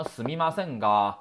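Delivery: すみませんが with a hard, blunt が; harsh wrong way. Shown as a demonstration. Teacher showing students the ugly wrong way: blunt, hard が. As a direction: bark out the が bluntly. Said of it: "太难听了啊".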